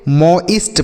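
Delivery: "मॉइस्ट" in two parts, mo-ist; pronunciation demo. Shown as a demonstration. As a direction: sound out "मॉइस्ट" as mo, then ist. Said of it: "क्या पढ़ेंगे?". ("मॉइस्ट" को मो-इस्ट जैसा बोलें)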